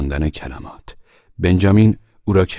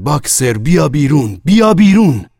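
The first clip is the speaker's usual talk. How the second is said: raised cry building to a high yell; urgent shout; 9 semitones higher, 8 dB louder than usual. A narrator's reading. All the animals calling Boxer out of the cart, shouting. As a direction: shout it, louder and higher on the repeat. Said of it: "همهٔ حیوانات فریاد زدند".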